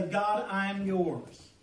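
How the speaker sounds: quiet, unhurried personal prayer; slow soft prayer. Retold or imitated. Believer committing himself to God, slow and soft. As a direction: speak it slowly and gently to God. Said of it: "tell God and say".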